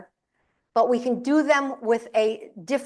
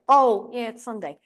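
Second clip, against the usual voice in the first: mock sheepish acceptance; resigned agreement. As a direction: give in, as a child reminded of the rule. Child conceding to father's reminder.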